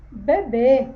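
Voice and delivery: "Bebê" with the mouth half closed on ê; closed vowel. Shown as a demonstration. Teacher demonstrates the circumflex, closed ê in "Bebê". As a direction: narrow the final ê of "Bebê", firmly. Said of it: "você meio que fecha a boca pra falar".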